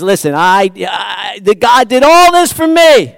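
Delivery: high, loud, tumbling eager rush; Wesley bursting to say it all at once; excited Wesley quote. Acted. Preacher voicing Wesley's eager overflowing rush. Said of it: "He says".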